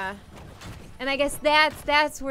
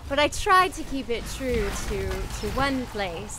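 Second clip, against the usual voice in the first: British accent. Shown as a demonstration. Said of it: "British is a lot of fun".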